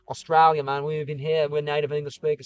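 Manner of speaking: not very good Australian accent; half-convincing imitation of an Australian speaker; bad Australian accent. Shown as a demonstration. Speaking as Australians to viewers, shaky-attempt Australian accent. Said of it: "I can't really do a good Australian accent".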